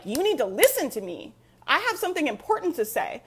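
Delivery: bold, demanding, rising on the second line; commanding energy. Retold or imitated. Live streamer to her audience, boldly commanding. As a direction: insist they must listen to you. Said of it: "I come on with this energy where I'm like".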